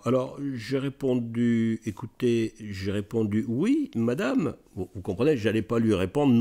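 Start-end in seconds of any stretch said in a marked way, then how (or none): 3.5-4.5 high, slow drawn-out yes madam; coy hesitant yes. Retold or imitated. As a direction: stretch it out high, unsure of yourself.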